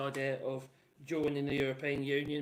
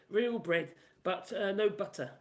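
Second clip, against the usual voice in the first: put-on northern accent; 3 semitones higher, 4 dB louder than usual. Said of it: "northern accent".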